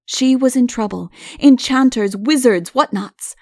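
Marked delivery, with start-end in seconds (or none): none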